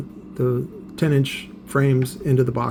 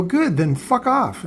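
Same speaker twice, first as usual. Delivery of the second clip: retold angry dismissal; 7 semitones higher, slower than usual. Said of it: "I tell him to fuck off".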